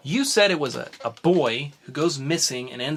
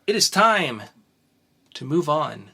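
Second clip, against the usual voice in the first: loud, high showman build-up; big announcement; 4 semitones higher, 5 dB louder, slower than usual. Real, not acted. Host announcing the segment, loud and high. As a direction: hype up the next segment.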